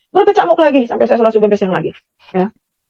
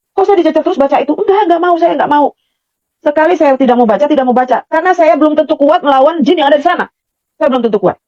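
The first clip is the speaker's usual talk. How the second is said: retold objection, somewhat raised and insistent; forceful inner protest; 3 semitones higher than usual. Woman inwardly refuses the repeated order to read, insistent protest. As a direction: refuse insistently, as if arguing back. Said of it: "sepertinya saya ngomong keras begitu".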